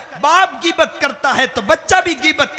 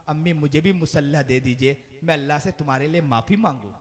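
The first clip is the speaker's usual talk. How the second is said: put-on small child's plea; 8 semitones lower than usual. Child voiced, timbre shifted.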